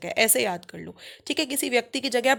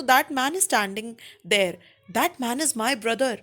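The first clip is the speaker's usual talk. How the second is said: very slow, each word apart; slow example read; much slower than usual. Shown as a demonstration. Teacher reading example slowly. (धीरे उदाहरण पढ़ना)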